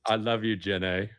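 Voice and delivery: a low-key put-on British accent. Co-host tries the love line himself, British accent. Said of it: "say it like a British".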